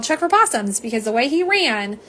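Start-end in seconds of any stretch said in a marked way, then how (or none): 0.0-0.8 a mild mock yell, a bit higher; half-hearted echo of the shout; retold yell. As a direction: re-enact the call lightly, half-hearted. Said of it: "so that's why I yelled".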